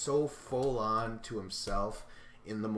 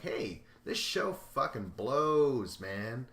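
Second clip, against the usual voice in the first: drawn-out disgusted gripe, a bit louder; fed-up rant; 3 semitones higher, 5 dB louder, slower than usual. Retold or imitated. Podcaster voicing Nelson sick of the show, slow disgusted gripe. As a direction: slowly complain like you're sick of it all.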